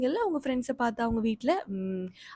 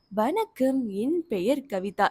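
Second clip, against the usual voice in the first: reading aloud slowly; slower than usual. Shown as a demonstration. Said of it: "இங்க என்ன பண்றாங்க".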